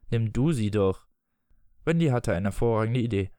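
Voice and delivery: expressive audiobook reading with voiced dialogue; story narration. A narrator's reading. Reading Peter Pan aloud to listeners, story narration. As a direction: read the tale aloud, measured and articulated.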